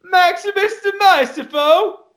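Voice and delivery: high, slow Cockney heckle; Cockney accent. Retold or imitated. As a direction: call it out like a Dickens urchin. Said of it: "some character from a Dickens movie".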